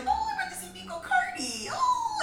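very high, squealed sweetness; hammed-up squeaky excitement; mock-delighted greeting. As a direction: gush on seeing a friend, laughing. Acting out delighted greeting of friend.

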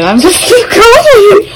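slow words broken by real laughter; laughing. Real, not acted. Guest apologizing for talking, laughing through it.

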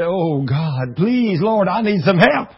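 pleading prayer. Retold or imitated. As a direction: beg God for help. Dying man begs God.

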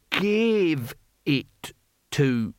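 very slow, dragged-out effort; strained, halting. A narrator's reading. Barbarian struggling through a polite phrase, very slow and strained. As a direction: squeeze each word out with effort. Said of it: "Cohen's lips tensed around the word".

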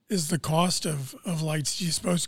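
strained, fading voice; hoarse voice giving out. Real, not acted. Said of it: "I'm losing my voice".

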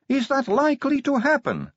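high, light innocent question; wide-eyed newcomer asking; young vampire woman voice. A narrator's reading.

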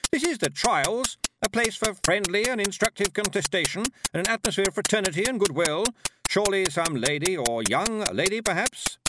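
high, loud, over-emphatic appeal; desperate hostess hard sell; almost frantic. A narrator's reading. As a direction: plead with the crowd, barely holding the cheer. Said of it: "now almost frantic".

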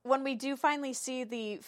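ordinary talk

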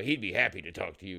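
a lightly imitated Southern boomer, low; mocking southern accent. Repeating the other guy's offer, in a mock Southern accent. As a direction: lightly mimic an older Southern man's accent. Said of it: "I'm just mocking this faggoty boomer here".

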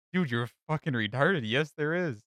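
S0 retelling the documentary, voicing Ramsay's angry scolding; mock angry yell. Gordon Ramsay yelling in retold story.

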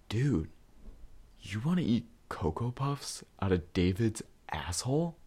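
hushed, secretive whisper; retold whisper. Friend whispering the rumor outside class, hushed whisper. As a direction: lean in and whisper it like a scandal.

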